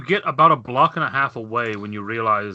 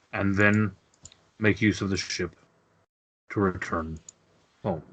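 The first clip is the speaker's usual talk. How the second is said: sighing grandfather; 2 semitones lower, 3 dB quieter than usual. Acted. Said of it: "sighs and he says".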